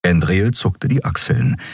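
ordinary delivery

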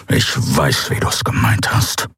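low whispered hiss. A narrator's reading. Keru hissing at Endriel, hurt and cold. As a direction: hiss it through the teeth. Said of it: "fauchte er".

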